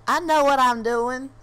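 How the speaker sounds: loud, high, drawn-out imitation of a defensive driver; mock indignant driver. Retold bus driver snapping back.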